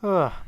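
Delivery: loud, high "ugh"; exasperated groan. Real, not acted. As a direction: let out a sharp groan of annoyance. Groan during gameplay.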